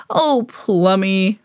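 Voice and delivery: lightly voiced man, indulgent; Rupert. A narrator's reading. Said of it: "said Rupert".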